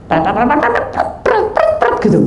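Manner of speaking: high rapid imitated bird chatter. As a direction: squawk away like a fussy bird. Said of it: "Untuk cerewet yang bawah". (ocehan burung cerewet melengking)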